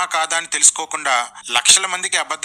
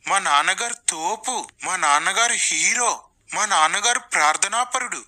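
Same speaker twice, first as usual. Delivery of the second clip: put-on boasting children; 3 semitones higher than usual. Preacher's children praising their father, mock boasting. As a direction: brag about daddy in mocking imitation. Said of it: "పిల్లలతో కూడా డబ్బా కొట్టించుకుంటున్నాడు".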